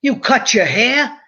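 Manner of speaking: slow, shocked father's voice; a dad who can't believe it; father seeing the short hair, slow disbelief. Retold or imitated. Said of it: "He says".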